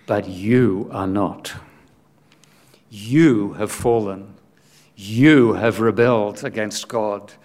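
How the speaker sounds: slow, measured accusation with weight on YOU; deliberate, grave reproach, lightly acted; spider's solemn rebuke. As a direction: answer back as the accusing spider. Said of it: "the spider answers and says".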